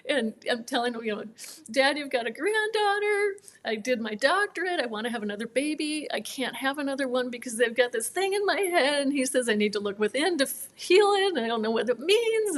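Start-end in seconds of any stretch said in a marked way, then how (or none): 1.7-9.0 high, tearful retold confession; imitated sobbing. 9.5-12.6 mildly tearful retelling, leaping high on "heal"; imitated sobbing.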